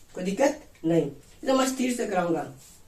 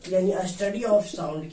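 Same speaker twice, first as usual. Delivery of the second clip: study of sound spelled out slowly; slow teaching read; 2 semitones lower, much slower than usual. Shown as a demonstration. Teacher to students, slow careful phrase. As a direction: say it word by word, slowly. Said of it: "sound का अध्ययन".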